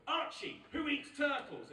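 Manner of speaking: put-on high, sing-out question to a toddler; parent quizzing toddler. Dad playing turtle game with his son, playfully prompting. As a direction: cue the child's party trick.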